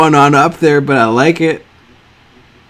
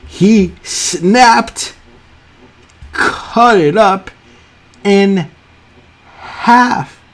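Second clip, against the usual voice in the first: awed excitement; 6 semitones higher, much slower than usual. Real, not acted. Gushing over shoe drawing details.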